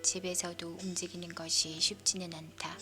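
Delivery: usual speaking voice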